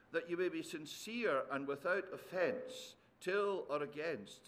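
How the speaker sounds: soft, measured Bible reading; solemn reading from an epistle; scripture reading. Acted. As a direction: read the passage aloud softly and reverently, phrase by phrase. Reads scripture aloud to congregation.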